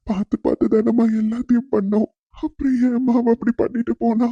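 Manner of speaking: tearful. Acted. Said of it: "அழாதீங்க மாமா". (அழுகையுடன் உயர்ந்த குரலில் கேட்கும் தந்தை)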